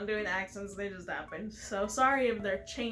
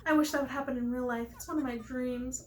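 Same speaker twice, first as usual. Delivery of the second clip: lightly raised, dreamy character voice; Pelly character, wistful; 3 semitones higher than usual. Acted. Player reading Pelly's coffee shop dream, lightly voiced and wistful. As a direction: muse as a lovestruck character, a touch higher.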